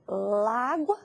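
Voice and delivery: "lágua" as one joined word; everyday blended "lágua"; words run together. Shown as a demonstration. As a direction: merge la and agua into "lágua", with a single A and no gap. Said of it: "A gente acabaria unindo o lá com o A".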